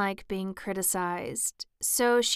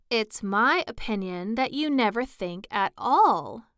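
a touch of stern scolding; severe tone; 2 semitones higher, 5 dB louder than usual. Acted. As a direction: scold Alice lightly but firmly. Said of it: "the rose said in a rather severe tone".

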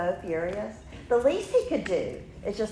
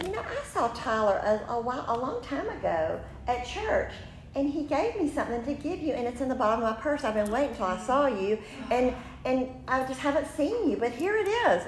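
a somewhat higher, lightly voiced girlish friend; chatty friend; 5 semitones higher than usual. Acting out Alyssa handing over the tape, lightly higher and chatty. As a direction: chatter it like a friend digging through her purse. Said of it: "She said".

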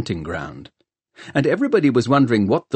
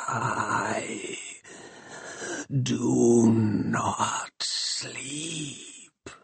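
slow, soft, grinding rasp; rusty machine voice; 3 semitones higher, 8 dB quieter, much slower than usual. Acted. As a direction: scrape it out like rusty cogs. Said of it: "It is a horrible voice".

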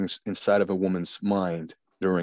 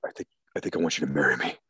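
mock proposal; 5 semitones lower, faster than usual. Acts man's quick false proposal.

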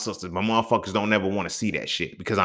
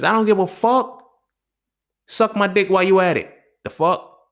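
he explodes at critics who unfollow him; furious outburst; 10 semitones higher, 5 dB louder than usual. Real, not acted. Angry rant at critics.

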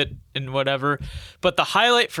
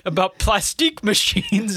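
higher exasperated guy, imitated; mock-exasperated complaint, pitched up; Portnoy; 6 semitones higher than usual. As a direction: friend retelling a clip, imitating an exasperated host. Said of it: "And Portnoy's like".

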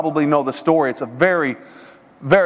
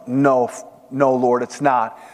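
low, halting, reluctant denial; swallowing hard; 5 semitones lower, slower than usual. Acted. Man refuses the silver axe from the Lord, reluctant. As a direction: admit it haltingly, as if it costs you. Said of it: "swallows hard and says".

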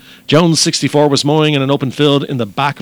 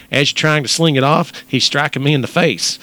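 put-on slightly raised Texas accent; 3 semitones higher than usual. Host quoting the snake victim, Texas accent. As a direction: read it as a Texan would, lightly put on. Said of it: "in your best Texas accent".

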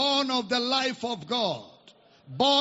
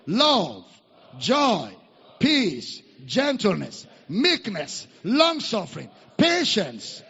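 listing litany; 2 semitones lower than usual. Real, not acted. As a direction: hammer out each fruit one by one. Leads a litany.

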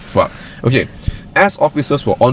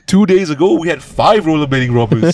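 mock Canadian cop; 5 semitones higher than usual. Voicing Canadian cop, joking.

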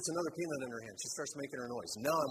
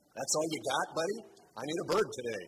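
louder, daring demand; calling God out, louder; bolder repeated prayer; 6 dB louder than usual. Retold or imitated. Man challenging the Lord in prayer, louder and daring. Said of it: "Well, that was silly".

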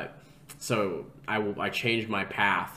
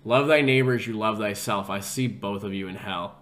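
declaration into the camera; 4 dB louder than usual. Retold or imitated. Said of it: "right into the camera, like, face to face with it, I go".

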